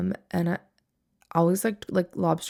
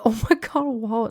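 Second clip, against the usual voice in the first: high, louder mock scold from grandma; 4 semitones higher, 4 dB louder than usual. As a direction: play grandma chiding her husband. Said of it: "my grandma was like".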